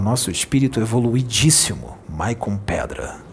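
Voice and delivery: hammed-up reverent tribute, dropping into a low hush; joking grand introduction of a friend in a group audio; mock solemn announcement. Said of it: "Aí eu falava".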